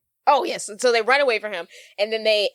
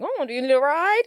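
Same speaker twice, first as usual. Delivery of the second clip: mock Asian accent; 6 semitones higher than usual. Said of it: "He has an Asian accent".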